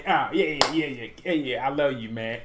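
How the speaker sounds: loud, hyped-up mock greeting; boisterous greeting. Perisic greeting Sané in the tunnel, boisterous. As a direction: act out a player hailing his mate.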